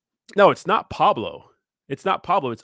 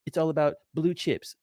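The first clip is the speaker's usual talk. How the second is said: mocking meme coin critics; 3 dB quieter than usual. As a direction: sneer it like a snob who only buys blue chips. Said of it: "People like".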